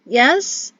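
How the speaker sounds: small high squeak; squeaky. A narrator's reading. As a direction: squeak it out nervously. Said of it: "they squeaked".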